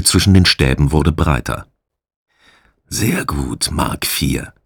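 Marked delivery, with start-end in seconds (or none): 2.9-4.5 pleased. A narrator's reading. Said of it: "sagte der Gefangene erfreut".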